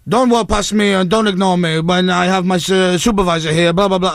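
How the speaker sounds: lightly voiced scolding security guard; a hint of an officious guard; telling-off guard. Security guard scolding passing staff, lightly imitated telling-off. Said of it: "He starts telling me off".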